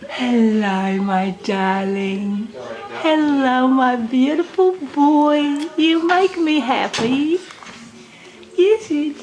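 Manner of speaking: sing-song coo to the grandchild. Real, not acted. Grandma cooing to the baby.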